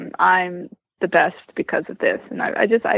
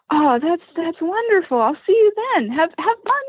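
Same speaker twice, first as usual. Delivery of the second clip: high friendly voice; 8 semitones higher than usual. Retold or imitated. Voicing Stefan's friendly goodbye.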